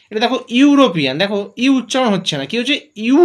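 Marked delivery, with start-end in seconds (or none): 3.0-3.2 ইউ held and stressed as a clear yu; sounding out yu. Shown as a demonstration. Teacher explains European to the class: ইউ stretched out. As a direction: lean on ইউ, a long yu sound.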